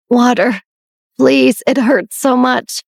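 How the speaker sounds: a frail, raspy plea, drawn out slowly; barely able to get the water request out, slow; weak raspy plea. Acted. Sick sister begging Beatrix for water, weak and raspy. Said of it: "In a weak, raspy voice, Melanie pleaded".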